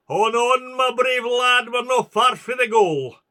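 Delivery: loud, high battle cry; rallying shout. Acted. Soldier spurring his wounded comrade toward the goal, shouting loud and high. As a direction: drive him on with a ringing shout.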